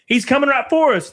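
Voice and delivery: high, panicked cartoon cry; South Park hunter voice. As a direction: yell it like a scared hunter. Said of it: "the South Park defense".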